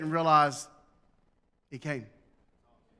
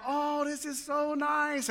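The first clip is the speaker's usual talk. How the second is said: high, drawn-out mock delight; gushing mimicry; 8 semitones higher, 4 dB quieter, much slower than usual. Preacher mimics a present opener savouring it, gushing and drawn-out. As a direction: coo it slowly in a raised voice.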